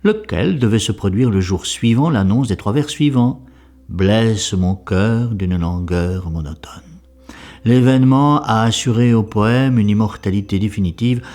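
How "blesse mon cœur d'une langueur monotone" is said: slow, measured line of verse; verse quotation. Acted. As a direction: quote the poem slowly and evenly. Quotes the verse within his commentary.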